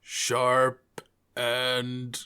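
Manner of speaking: slow, hushed menace, ending in a whisper; menacing knife-holder. Acted. Knife-holder answers how the knives feel, slow menacing hush. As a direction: draw it out, sinking to a whisper.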